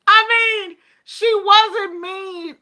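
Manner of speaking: high, loud real laughter breaking through the words; busting out laughing. Real, not acted. A patient retelling her doctor visit, cracking up laughing. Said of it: "I just busted out laughing".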